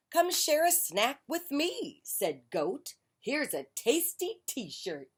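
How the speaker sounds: high goat voice. Acted. Goat offering Duck a t-shirt, high voice. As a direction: bleat it up high and chummy.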